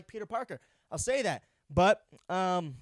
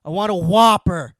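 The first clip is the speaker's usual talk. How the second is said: hammed-up Whopper roar; 15 dB louder than usual. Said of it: "wakes up in the morning and says".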